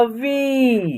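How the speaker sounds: "वी" with a long held vowel; pronunciation demo. Shown as a demonstration. Teacher showing how the letter is pronounced, "वी" drawn out. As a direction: stretch "वी", falling at the end. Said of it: "इसका उच्चारण होगा".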